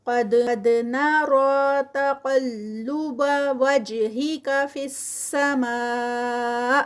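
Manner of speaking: very slow chanted recitation with a heavy ق; Quranic recitation. Shown as a demonstration. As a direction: recite slowly, making the ق full and heavy. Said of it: "قاف heavy". (بھاری قاف کے ساتھ آہستہ تلاوت)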